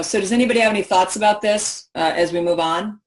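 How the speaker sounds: rushed and impatient, eyeing the watch; unapproachable, rushed. Shown as a demonstration. Presenter rushing the room, dismissive and hurried. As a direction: brush the question off fast. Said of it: "with a completely not approachable voice".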